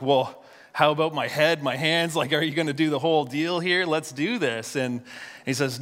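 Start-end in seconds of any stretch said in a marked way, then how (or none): 0.0-4.8 higher, eager mock excitement; retold eagerness. Preacher voicing Simon asking for a full wash, eagerly. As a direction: lightly act out an over-keen disciple.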